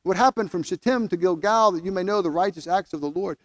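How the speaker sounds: measured pulpit reading; scripture reading. Acted. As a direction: proclaim the passage to the congregation. Preacher reads Micah passage.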